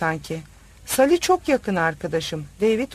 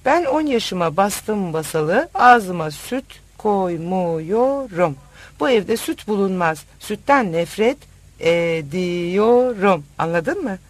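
slow, firm and emphatic; angry insistence; 4 dB louder than usual. Acted. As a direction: drag out the hatred of milk. Insisting she hates milk.

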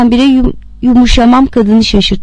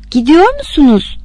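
a touch of fear, pitched higher; mildly fearful; 6 semitones higher than usual. A narrator's reading. Man to woman getting up to leave, mildly fearful. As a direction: ask with restrained alarm as the pitch lifts. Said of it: "dedim korkuyla".

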